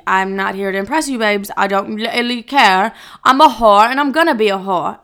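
hammed-up British accent; mock British, badly faked. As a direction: put on a bad British accent, brazen. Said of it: "it was a really bad British accent".

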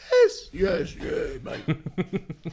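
mock Cockney accent, high and loud at first; a teen putting on a Cockney accent to sound older; Merseyside Cockney. Underage teen fakes a Cockney accent to the barman. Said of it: "Suddenly became Cockney".

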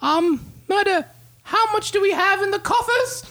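high, formal, betrayed king; a grave king, pitched well above his own voice. Acted. King promises a reward.

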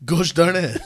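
put-on French-accented, slurring toward a name; joking French; mock French accent. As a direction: try it as a silly Frenchman. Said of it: "It sounds like Josh Barnett".

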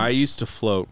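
solemn spoken-word lyric reading; spoken song lyrics. Pretend. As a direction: recite a sad pop song like a poem. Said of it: "speak the lyrics to you".

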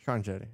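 Santeri with SH and CH, "Shancheri"; háček on the S. Retold or imitated. Friend mimics the "Czech" name, Santeri turned into "Shancheri". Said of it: "mulla on siinä S:n päällä se, se V".

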